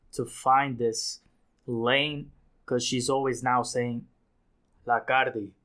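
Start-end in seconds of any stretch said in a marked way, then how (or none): 4.8-5.5 put-on Spanish-accented quote of the rapper; imitated Spanish catchphrase. Critic quoting a rapper's Spanish sign-off, Spanish accent. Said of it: "She's doing the Spanish".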